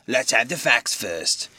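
slow, firm rustic blacksmith; insistent blacksmith. Acted. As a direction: lay it down slowly and firmly. Wadgers insists.

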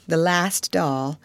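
put-on girl repeating it sadly to herself; mournful echo. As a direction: let it fade in grief. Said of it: "her little mournful voice had an odd sound".

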